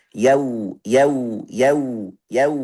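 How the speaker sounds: "yau" with a clear a gliding into w; repeated model "yau", evenly measured; balanced, full fathah. Shown as a demonstration. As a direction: give "yau" its due, neither blurred nor overdone. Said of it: "Kita di tengah".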